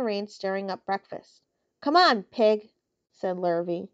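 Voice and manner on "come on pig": calling the pig. Acted. Farmhand calls the pig.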